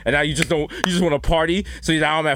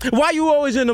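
high-pitched imitated nagging; mock complaint; 9 semitones higher than usual. Imitating someone fed up with the song, mock complaint. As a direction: nag in a high, put-on voice.

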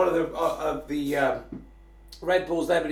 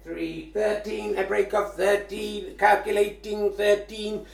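slow computer voice; robot voice; slower than usual. Pretend. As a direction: announce it like a machine. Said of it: "I let the robot voice do it".

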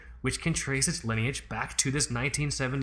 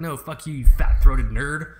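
mock yell; 12 dB louder than usual. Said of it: "It's like".

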